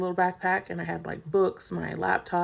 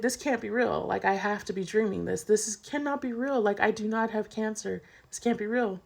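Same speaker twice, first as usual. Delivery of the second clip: higher-pitched retold denial; pleading with reality, pitched up; shocked disbelief; 3 semitones higher than usual. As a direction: insist on it in mild disbelief. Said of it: "I was so shocked".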